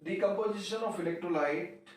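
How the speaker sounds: words drawn out for note-taking; slow, deliberate dictation. Shown as a demonstration. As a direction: dictate it slowly so students can write. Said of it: "teacher dictates definition slowly".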